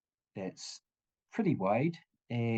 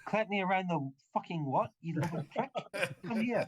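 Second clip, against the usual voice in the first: higher-pitched, affronted challenge; indignant threat; 6 semitones higher than usual. Acted. Hireling threatening the one who insulted him, indignant. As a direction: square up to someone in mock outrage. Acted NPC threatens a slap.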